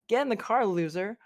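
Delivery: sassy high movie-line delivery; bad acting. Shown as a demonstration. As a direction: toss it off like a teen movie diva. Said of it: "you have to deliver it like".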